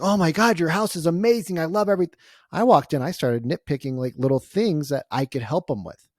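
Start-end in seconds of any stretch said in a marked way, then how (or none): 0.0-2.2 mock gushing. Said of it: "I didn't walk in and be like".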